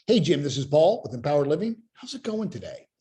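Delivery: "Hey, Jim" and "going today" lifted like questions; questioning tonality. Shown as a demonstration. Sales coach demoing a call opener with questioning tone. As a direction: make "How's it going today?" climb like a question. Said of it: "using the questioning tonality".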